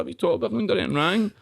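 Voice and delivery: high-pitched indignant outburst; exasperated retold rant, voice up high; raging. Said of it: "I was raging about it".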